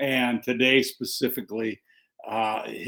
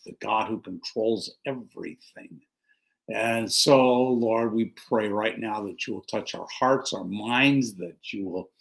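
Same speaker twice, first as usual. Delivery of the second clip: earnest prayer; 3 semitones lower than usual. Acted. Pastor leading the congregation in prayer, reverent and earnest. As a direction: pray it with devotion, building to the close.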